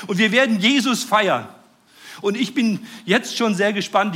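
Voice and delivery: full-force preaching. Acted. Preacher to congregation about heaven, jubilant full-force preaching. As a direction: let it ring out with joy from the pulpit.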